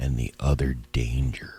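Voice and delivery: quiet low whispering. Looking around the area near the school online: whispering. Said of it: "Why are we whispering?".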